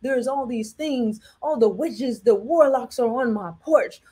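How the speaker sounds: mock endless crisis; dramatic complainer. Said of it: "always some drama in their life".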